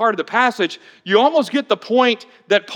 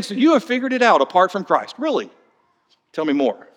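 sarcastic. Retold or imitated. Paul teasing the Corinthians, mock curiosity. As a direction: feign interest, clearly unconvinced. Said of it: "Paul is saying that same thing".

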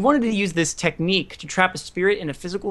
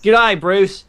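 louder, higher put-on Australian; mock Australian accent; 5 semitones higher, 6 dB louder than usual. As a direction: play along with a put-on Aussie accent. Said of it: "You kinda sound Australian there".

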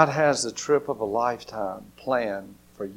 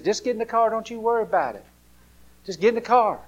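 higher, coaxing parent voice; playful parent; 7 semitones higher, faster than usual. Retold or imitated. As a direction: brush off the question and hurry them along. Parents hurrying the child.

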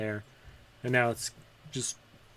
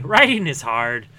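loud repeat; 8 dB louder than usual. Shown as a demonstration. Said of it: "Imitating things is easy".

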